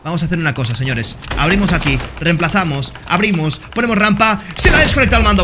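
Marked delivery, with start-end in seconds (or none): 4.6-5.4 high, louder burst of surprise; high excited exclamation; gleeful surprise. Real, not acted. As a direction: crow at the disconnect. Opponent disconnects, gleeful surprise.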